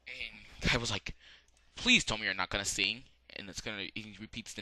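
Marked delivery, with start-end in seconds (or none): 1.8-3.1 loud pleading; exasperated plea. Retold or imitated. Kaiba begs Joey not to sing, loud exasperated. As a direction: beg him loudly not to sing.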